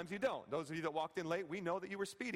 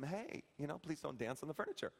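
mildly polite, lower-pitched ask; politely quoted house rule; polite request; 6 semitones lower, 4 dB quieter than usual. Retold or imitated. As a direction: ask them nicely, keeping it low and easy. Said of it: "I will just politely ask them".

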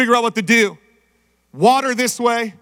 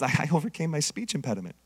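mock boast; 8 semitones lower, 12 dB quieter, much faster than usual. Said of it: "Here's the guy that thinks".

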